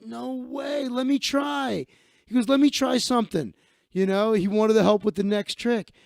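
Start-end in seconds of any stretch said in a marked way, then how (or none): 0.0-3.5 higher, lightly excited no way; a hint of a won-over skeptic; imitating amazed guy. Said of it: "He's like".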